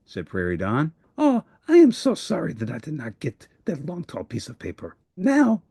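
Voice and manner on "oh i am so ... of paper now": a monster who let his friend down; sorrowful Grover. Acted. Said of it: "Grover cried".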